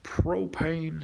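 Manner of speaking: lightly voiced cartoon dad; a hint of cartoon-dad impression; Hank Hill. Streamer tosses out a catchphrase for viewer, lightly voiced impression. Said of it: "You do a really awesome Hank Hill impression".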